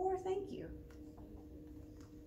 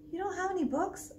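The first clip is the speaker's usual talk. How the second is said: put-on surprised child; 9 semitones higher than usual. Boy surprised.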